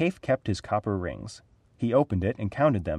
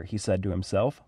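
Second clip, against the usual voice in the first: usual speaking voice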